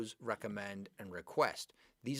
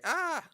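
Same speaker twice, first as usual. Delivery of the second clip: short, higher and louder mock scream; 9 dB louder than usual. Teacher introduces his scream picture to the class, mock scream. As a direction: let out a playful "ah" of alarm.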